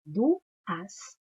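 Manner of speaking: "duas" in two beats, du, as; split into syllables. Shown as a demonstration. Teacher repeating for the class, "duas" broken into du, as. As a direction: pull the u and a of "duas" apart. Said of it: "Eu abri a boca duas vezes".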